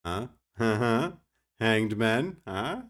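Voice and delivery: nudge-nudge rising questions; jokey innuendo. Pretend. Streamer joking with viewers about hanged men, suggestive teasing. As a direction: tease it with a little laugh, like a dirty joke. Innuendo joke, then "mind out of the gutter.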